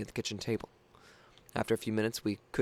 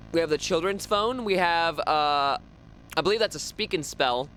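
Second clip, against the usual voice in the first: excited; 5 semitones higher, 4 dB louder than usual. Real, not acted. Excited listing of toys.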